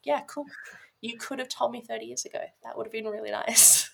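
mock sarcastic. Retelling her reply to her cousin's late news, wryly sarcastic. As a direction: feign being cool with it while complaining.

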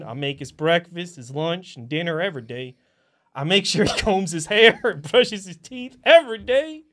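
a light Southern drawl for the Forrest Gump reading; Southern accent. Acted. Auditioning actor reads Forrest's graveside letter, light Southern accent. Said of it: "I switched accents in the middle".

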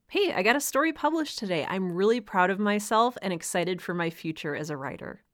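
bright, quick burst of pride; excited self-talk. Acted. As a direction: sound thrilled, like you just got published. Voicing happy self-talk about publishing.

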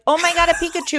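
high-pitched mock thrill; imitated excitement. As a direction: squeal like an excited player spotting something.

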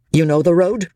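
rough. A narrator's reading. Chauvelin pressing the peddler about the road, rough. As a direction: demand it roughly. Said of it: "repeated Chauvelin roughly".

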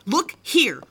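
a hushed, urgent whisper of Look here; whispered order. Acted. She whispers to her boyfriend to look at her.

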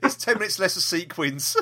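half-laughing, half-sobbing; mock grief, laughing at own joke. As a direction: laugh through the fake tears. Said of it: "How are you gonna cope?".

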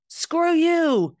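a sudden high, loud "screw you"; a quick burst of acted anger; mock angry snap. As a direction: spit it out like a flash of temper. Acting out the spur of anger.

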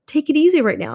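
high-pitched, tentative suggestion; Holy Spirit. Acted. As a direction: voice a polite little nudge, pitched well up. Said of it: "the Holy Spirit's like".

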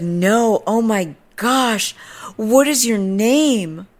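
high, slow, drawn-out fawning; mock gushing. Stranger begging to know her name, high hammed-up gush. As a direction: imitate an overwhelmed admirer.

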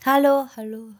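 loud calls into the void; canyon echo. Pretend. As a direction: call out to hear the echo.

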